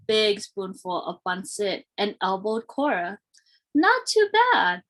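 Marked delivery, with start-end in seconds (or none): 3.7-4.8 high, loud, slow grudging praise; Crispin teasing. A narrator's reading. Brother Crispin grudgingly praising Cora's pancit, high and slow. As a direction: drag it out like a cool big brother. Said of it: "Crispin said".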